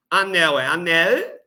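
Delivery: "Anel" ending in a distinct L sound; clear final L. Shown as a demonstration. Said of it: "como se fosse o mesmo fonema". ("anel" com L bem pronunciado)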